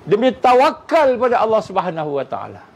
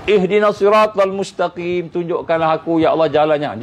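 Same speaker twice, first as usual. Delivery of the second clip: fervent prayer; 3 semitones lower than usual. Acted. Fighter praying alone the night before battle, low earnest prayer. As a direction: pour out the heart to Allah, low and unhurried.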